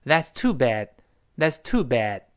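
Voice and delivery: "bad" with the d not popped; unreleased final d. Shown as a demonstration. Teacher models the fast reading, unreleased d in "bad". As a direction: say "That's too bad" with a held-back d. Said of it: "最后那个的失去爆破了".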